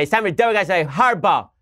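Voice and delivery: lightly mocking the host's catchphrase; Chris Matthews impression. Host mocked by a commentator, lightly voiced newsman. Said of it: "have Chris Matthews go out there and say".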